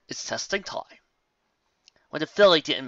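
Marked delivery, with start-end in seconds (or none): 0.1-1.0 menacing whisper. Acted. Captor taunts the filly.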